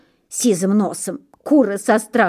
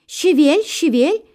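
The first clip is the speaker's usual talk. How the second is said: goslings whispering; 8 semitones higher, 3 dB louder than usual. A narrator's reading. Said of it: "щепчут гусенята".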